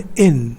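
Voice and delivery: "in" given as a separate syllable; isolated syllable. Shown as a demonstration. Teacher counts out the first syllable, "in" isolated. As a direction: say "in" on its own as a syllable. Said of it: "syllable है वो है".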